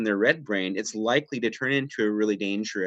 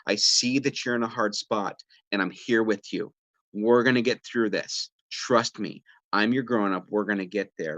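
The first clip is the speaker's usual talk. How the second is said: kind reassurance; 2 semitones lower than usual. Shown as a demonstration. Parent comforting an upset kid, gently reassuring. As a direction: promise them you're their grown-up. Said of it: "you're letting them know".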